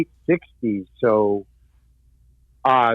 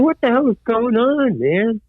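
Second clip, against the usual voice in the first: mock outrage; 7 semitones higher than usual. Pulled off stage by police.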